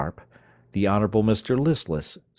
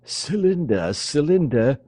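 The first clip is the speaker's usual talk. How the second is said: raised, higher stern father's call; 8 semitones higher, 4 dB louder, slower than usual. Acted. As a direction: call her name like an angry father. Toobad calls his daughter.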